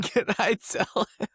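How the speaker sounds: lightly put-on high, slow child voice; mock little kid. Co-host playfully echoing the daughter's question, mock kid voice.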